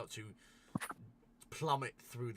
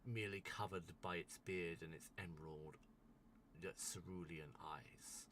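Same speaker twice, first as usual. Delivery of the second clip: scene narration; 8 dB louder than usual. Acted. Game master unveils a rising ice being to players, measured narration. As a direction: describe the emerging giant with slow, deliberate pauses.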